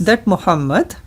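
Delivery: slow, over-enunciated dictation for repeating; said slowly. Shown as a demonstration. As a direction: spell out each word slowly to be repeated. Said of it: "I will say this slowly".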